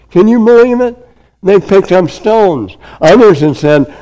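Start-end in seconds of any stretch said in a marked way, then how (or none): 0.1-2.8 much higher, amazed outcry; incredulous. Real, not acted. Preacher marvels to congregation at the crowd, incredulous.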